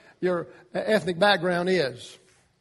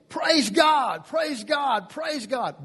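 joyful shout; 5 semitones higher, much slower than usual. Retold or imitated. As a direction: shout your thanks to God.

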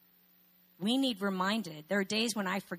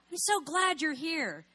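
higher, slower, gushing; effusive welcome; 9 semitones higher than usual. Retold or imitated. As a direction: gush over the guest. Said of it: "We don't go".

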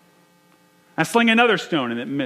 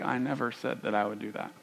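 God's calm reply; 5 semitones lower, 10 dB quieter, faster than usual. Retold or imitated. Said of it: "And God's like".

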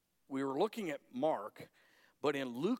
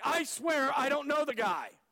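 mock casual denial; 12 semitones higher, 6 dB louder than usual. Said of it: "it's not like".

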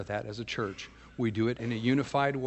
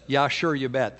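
light Swedish-style singsong, a bit louder; Scandinavian accent; 7 dB louder than usual. Retold or imitated. Pastor imitating the Swedish husband, a lightly done Scandinavian accent. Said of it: "That's how he talks".

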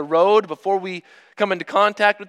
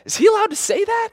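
much higher, scandalized little question; mock-scandalized, pitched way up; shocked disbelief; faster than usual. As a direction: gasp it out like a shocked churchgoer. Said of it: "that voice and we say".

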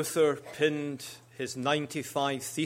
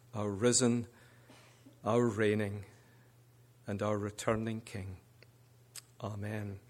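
prayer; 2 semitones lower than usual. Acted. Preacher leading the church in reverent prayer. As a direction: pray reverently over the congregation. Opening prayer before sermon.

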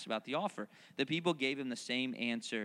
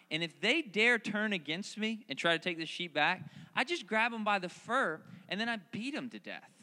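offhand, slow, matter-of-fact boasting; casual resume; 3 semitones higher than usual. Retold or imitated. David telling Saul about lions, offhand and casual. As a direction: shrug it off like it's nothing. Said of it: "What did he say?".

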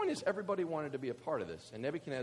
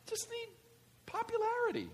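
mock squeaky voice. Pitch jumps very high.

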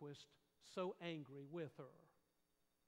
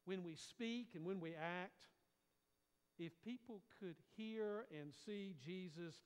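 usual speaking voice

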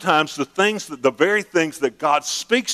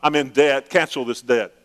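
mock pleading prayer. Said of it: "talking like this to God".

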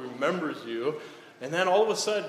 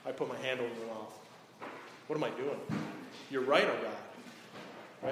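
much softer, chastened reply; humbled Job; 4 semitones lower, 8 dB quieter than usual. Acted. Job humbly answering God, soft and chastened. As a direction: answer meekly as a silenced man. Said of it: "And Job says".

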